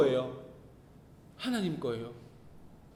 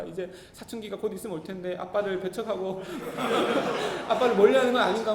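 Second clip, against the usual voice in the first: laughing. Real, not acted. Laughing at own worry.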